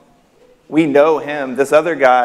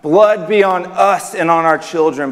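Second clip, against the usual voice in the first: higher, mildly raised cry; shouted plea; 4 semitones higher than usual. Acted. Preacher voicing believers' cry, mild shout. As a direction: proclaim it like a partial shout. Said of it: "where we would shout out".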